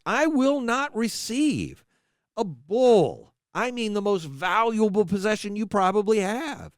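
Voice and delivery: impassioned, rising divine voice, pleading and stern; God rebuking his people. Acted. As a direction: speak as God, swelling with passion at his own.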